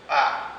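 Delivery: teacher shows "a." as short open à; spoken "à". Shown as a demonstration. Teacher shows learners the sound "a.". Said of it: "va être prononcé".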